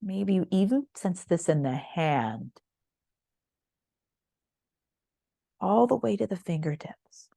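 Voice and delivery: unhurried yoga body-scan voice, long pauses between phrases; calm, spacious meditation cueing; guided meditation. Real, not acted.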